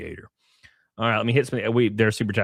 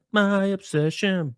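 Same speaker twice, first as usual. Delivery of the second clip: higher, slow, theatrical proclamation; mock dramatic; 9 semitones higher, slower than usual. Streamer hamming up a troll's insult, mock dramatic. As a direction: declare it like a soap-opera reveal.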